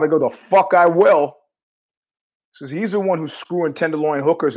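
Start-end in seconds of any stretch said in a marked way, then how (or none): 0.2-1.4 slow, higher, emphatic retort; indignant refusal. Retold or imitated. Refusing the doctor's mouth-to-mouth advice, indignant. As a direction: dig in and refuse, drawing it out.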